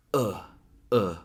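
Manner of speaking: "uh" short, like punched in the stomach; punched-stomach schwa. Shown as a demonstration. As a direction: grunt a brief "uh" twice. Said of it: "someone's punching you in the stomach".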